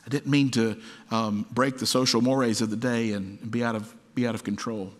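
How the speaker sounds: mock-sheepish, hesitant apology; small, halting embarrassed excuse; meek apology. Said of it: "He didn't go".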